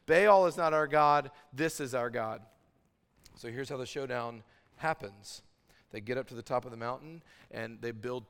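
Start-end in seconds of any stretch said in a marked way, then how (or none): 0.0-2.4 loud, emphatic proclamation; crowd declaration. Acted. The nation speaking after the duel, loud proclamation. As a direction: declare it as one voice of a whole nation. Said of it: "to then say in unison".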